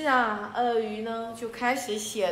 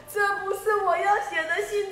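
lion objecting, pitched up; indignant protest; 8 semitones higher than usual. Acted. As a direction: insist it is not your letter.

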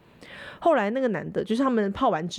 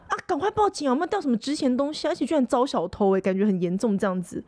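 urgent concern; 2 semitones higher than usual. Retold or imitated. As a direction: urge the nurse to call the police. Colleagues urging nurse.

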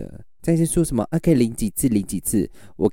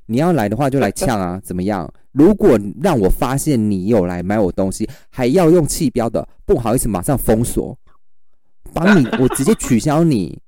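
retold taunting challenge; 2 semitones higher, 3 dB louder than usual. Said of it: "我就说".

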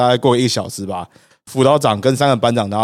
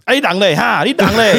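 a taunt, pitched higher, in a Taiwanese-tinged lilt; mock taunting recruit; 9 semitones higher, 4 dB louder than usual. Cohost mimics the Chiayi recruit, lightly mocking taunt. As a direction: toss it off like a rough southern recruit.

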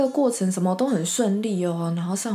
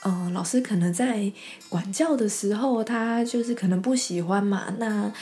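quoting teacher rant; 3 semitones higher than usual. Retold or imitated. Long quote of teacher's rant.

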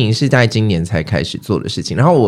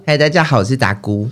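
put-on baby doll voice. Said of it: "用装可爱的娃娃音说话".

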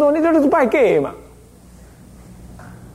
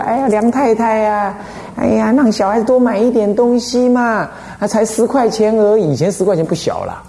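coaxing shopkeeper; 5 semitones higher than usual. Retold or imitated. Shopkeeper coaxing the boy's mother to buy, in a higher, wheedling voice. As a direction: sweet-talk the customer into buying a toy.

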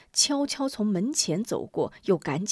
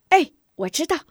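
put-on high, louder child's reply; eager boy; 8 semitones higher, 6 dB louder than usual. Pupil answers his teacher, high eager boy voice. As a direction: pipe up like a keen little boy.

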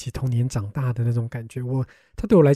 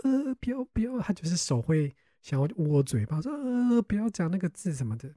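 flustered soft hushing; 5 semitones higher, 7 dB quieter than usual. Retold or imitated.

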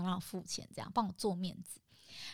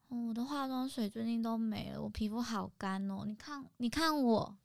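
coy pleading voice; 2 semitones higher than usual. Retold or imitated. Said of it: "就说".

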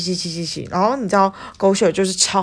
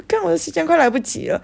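frantic and high; 11 semitones higher than usual. Retold or imitated. Panicking about being late.

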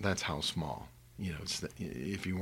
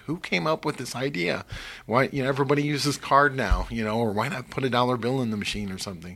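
louder, higher exasperated rant at the toll machine; frustrated rant; 5 semitones higher, 6 dB louder than usual. Retold or imitated. At the unmanned toll kiosk, a frustrated higher rant. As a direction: vent like you're stuck at a toll booth. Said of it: "and I'm really frustrated".

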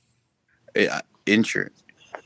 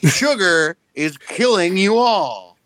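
slow, higher dramatic announcer voice; mock sports science host; 6 semitones higher, much slower than usual. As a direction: ham up a TV science guy warning viewers. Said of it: "he's like".

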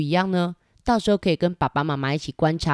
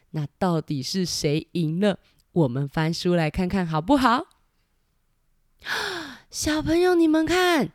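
lively picture-book reading; reading to a toddler. A narrator's reading. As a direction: ask the kids along, bright and warm. Narrator engages children with book. (给小朋友讲故事)

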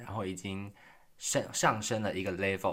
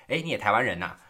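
surprised greeting; 9 dB louder, faster than usual. Retold or imitated. Retold classmate's surprised greeting.

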